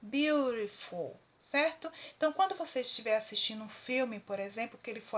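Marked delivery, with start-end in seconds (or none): 0.0-1.2 American English accent, beautiful with the T flapped almost like an R; American pronunciation. Shown as a demonstration. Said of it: "O americano, ele vai pronunciar".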